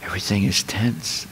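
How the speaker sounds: low, soft murmured golf commentary; a mild imitation of a quiet golf broadcaster; hushed golf commentator. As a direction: narrate the putt like a hushed TV golf announcer. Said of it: "they also speak in whispers".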